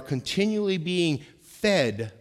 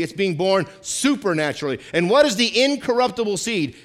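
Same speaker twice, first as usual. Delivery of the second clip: raised, punchy scripture exposition; emphatic preaching; 5 semitones higher, 6 dB louder than usual. Real, not acted. Pastor explaining being born again from scripture, emphatic preaching. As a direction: drive the verse home to the congregation.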